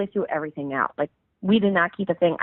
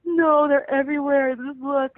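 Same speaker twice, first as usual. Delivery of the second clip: higher, strained and insistent, imitating her own panic; retold upset insistence; 7 semitones higher than usual. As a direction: plead with him to look, mock-frantic. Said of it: "I'm like".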